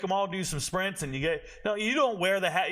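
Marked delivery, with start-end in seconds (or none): none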